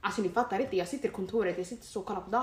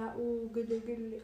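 dämpat, tillgjort gulligande; härma kärleksfulla typer med avsmak; hånfullt gulligull; 6 dB quieter, slower than usual. Retold or imitated. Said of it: "folk som så här ska vara kärleksfulla". (retsamt gulligullande)

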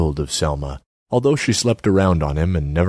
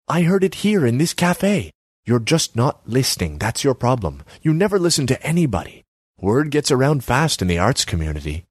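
higher pitched, nagging artsy woman; Selma's voice; 7 semitones higher than usual. Acted. Selma needles Borislav about his empty kiosk, high voice.

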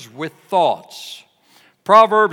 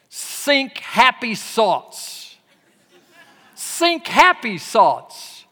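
put-on higher, slow German-accented painter, "Think happy thoughts" with s for th; 7 semitones higher, 4 dB louder, much slower than usual. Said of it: "he spoke with a real pronounced German accent".

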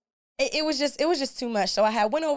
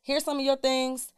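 calm cool tone. Retold or imitated. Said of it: "I'm like".

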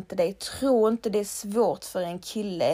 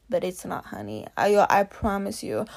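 tender. Real, not acted. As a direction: comfort her gently. Tender aside in English. (mjukt och ömt)

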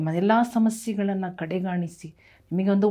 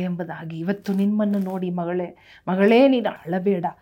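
rising, impassioned preaching voice; fervent preaching; 4 dB louder than usual. Acted. Pastor preaching healing to the congregation, fervent. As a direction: preach healing to the crowd with fire. Full-force healing sermon.

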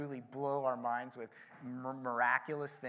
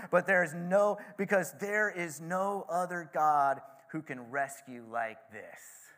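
proclaiming; 3 semitones higher, 5 dB louder than usual. Retold or imitated. King ending his decree, proclaimed loudly. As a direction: announce it like a royal decree. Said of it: "I love that last phrase".

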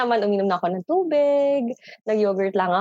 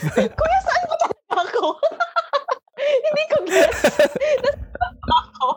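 high, breathless giggles through the words; can barely get the words out for laughing; real giggling, much higher. Real, not acted. Giggling at the Kuya voice.

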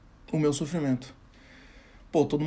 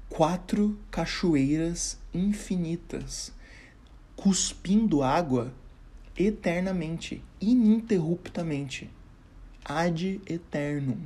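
épico lento; slower than usual. Acted. Epic description of endless urinals.

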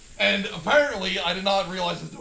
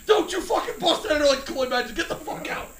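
high, loud mock telling-off; retold raised-voice warning; yelling instructor; 8 semitones higher, 4 dB louder than usual. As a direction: imitate an exasperated instructor barking orders. Instructor's retold yelled order.

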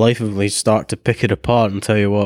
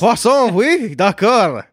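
high, slow hammy French; fake foreign language; 10 semitones higher, much slower than usual. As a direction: drawl it out like a Frenchman. Mock French word play.

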